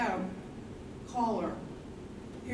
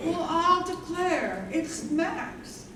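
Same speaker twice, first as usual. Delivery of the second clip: surprised greeting; 6 semitones higher, slower than usual. Acted. Mother surprised at the door.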